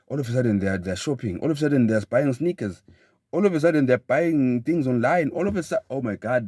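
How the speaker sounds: breathless pile-up, climbing in pitch; mounting excitement. Acted. Telling listeners how shopping runs out of control, mounting excitement. Acting out a runaway shopping spree.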